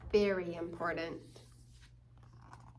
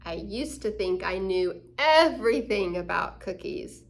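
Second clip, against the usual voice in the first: humble wisdom; 6 dB louder than usual. Acted. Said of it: "Wise means".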